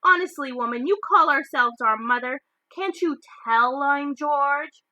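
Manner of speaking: cheeky boy teasing his mother, hammed-up indignation; mock-indignant twin. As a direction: play up the fake offence.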